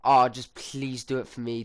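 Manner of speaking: imitating a pleading nan. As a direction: beg a little, lightly voiced. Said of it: "instantly she goes".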